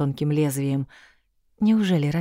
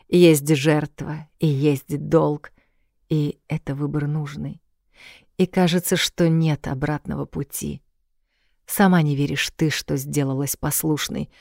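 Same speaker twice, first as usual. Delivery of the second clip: poem recital. Acted. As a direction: recite it like a ballad. Текст песни, читаемый нараспев. (размеренное чтение стихов)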